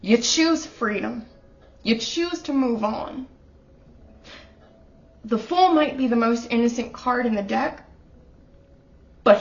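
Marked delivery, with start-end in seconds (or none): 0.0-3.3 emotional. Real, not acted. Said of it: "Now I'm getting emotional".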